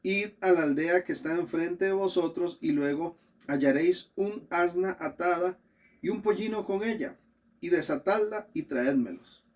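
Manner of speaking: solemn public reading of scripture. Acted. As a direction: proclaim the passage phrase by phrase. Reads scripture aloud to congregation.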